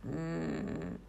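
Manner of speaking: low, soft grumbled hmm; grumbling hum. A narrator's reading. Judge ponders the testimony, low grumble. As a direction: grumble it deep and wordless. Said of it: "zabručel doktor Korpus".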